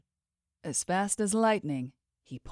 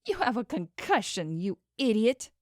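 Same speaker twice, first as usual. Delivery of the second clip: laughing through tears; 4 semitones higher than usual. Acted. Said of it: "She laughed through her tears".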